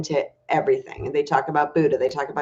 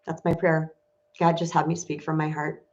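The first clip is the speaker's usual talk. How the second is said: quiet prayer; 3 semitones lower, 4 dB quieter than usual. Real, not acted. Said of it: "my prayer is to God".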